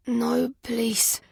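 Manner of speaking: croaking. Acted. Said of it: "he croaked out".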